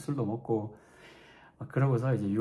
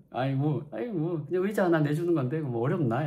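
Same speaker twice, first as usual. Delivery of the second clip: cocky inner voice; 5 semitones higher than usual. Retold or imitated. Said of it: "약간 이런 생각이 들어가지고".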